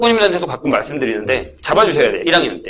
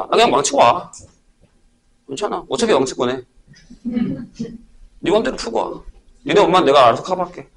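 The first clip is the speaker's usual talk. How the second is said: reassuring. Retold or imitated. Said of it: "저는 그렇게 얘기합니다".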